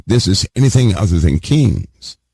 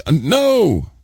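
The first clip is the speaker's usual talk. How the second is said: mock disbelief; 7 semitones higher than usual. Rejecting crowd's wrong answer.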